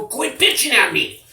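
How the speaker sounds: high-pitched, exasperated comeback; retold angry retort. New inmate answering the younger one's complaints, exasperated. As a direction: act out snapping back at someone. Retold snapping back in quarrel.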